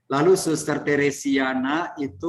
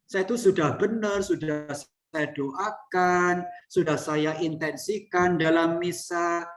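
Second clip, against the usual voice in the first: higher, offended whine of a vain sister; pitched-up complaint, mildly hammed; mock proud nun; 4 semitones higher than usual. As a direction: play the wounded pride of a nun losing face. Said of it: "Nah, itu sombong".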